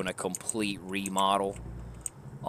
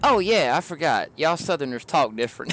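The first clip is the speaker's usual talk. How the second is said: retold coworker; 5 semitones higher, 4 dB louder than usual. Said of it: "She goes".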